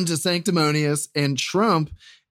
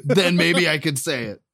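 playing Trump. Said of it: "Mister Trump".

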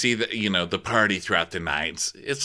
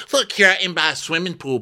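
mock boasting girl; 10 semitones higher, faster than usual. Retelling her travel boasts.

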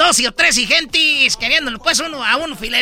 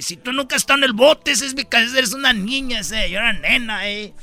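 lower, slangy East LA cholo talk; 4 semitones lower than usual. Acted. Cholo tough talking to Don Cheto in slang. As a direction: lay back and talk like a homeboy.

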